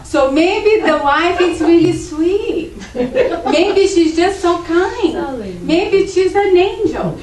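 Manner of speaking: high, loud, laughing through the words. Real, not acted. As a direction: giggle it out, amused at the idea. Teasing alternative: sweet angel wife.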